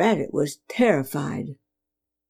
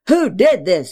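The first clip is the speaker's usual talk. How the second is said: louder, a sharp demand from father; a hint of an angry father barking; 5 dB louder than usual. Father confronting the broken idol, angry. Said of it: "he barked angrily".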